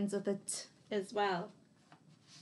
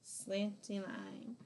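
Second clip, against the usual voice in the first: slow demo; 5 dB quieter, much slower than usual. Shown as a demonstration. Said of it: "Gonna do one more of each".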